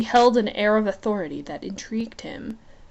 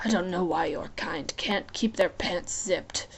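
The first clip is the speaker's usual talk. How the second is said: scoffing; 2 semitones lower, 6 dB quieter than usual. Acted. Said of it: "Hades scoffed".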